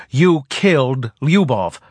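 rising to a raw yell; furious shouting. Acted. Gossa raging at Selver.

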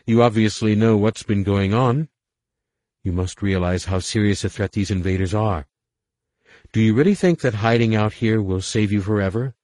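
urgent pleading. Acted. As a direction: press the point hard.

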